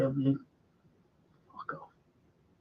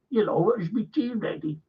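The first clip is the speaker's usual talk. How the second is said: lightly voiced TV-drama husband; a mild send-up of a Liverpool actor; mock man of the house; 5 dB quieter than usual. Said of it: "man of the house".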